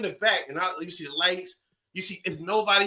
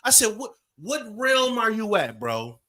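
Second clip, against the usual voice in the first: mock incredulous; 5 semitones higher, slower than usual. Incredulous retort to cop.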